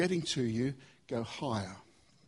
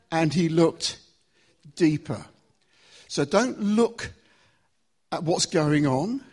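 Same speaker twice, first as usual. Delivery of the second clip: preaching louder; 7 dB louder than usual. Real, not acted. Preacher building to his climax.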